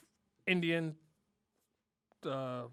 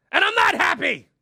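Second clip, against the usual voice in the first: louder, higher, mock outrage; mock upset outburst; 12 semitones higher, 11 dB louder than usual. Comic admitting his weight, mock outraged shout. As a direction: blurt it out like a wounded ego. Comedian reveals weight gain.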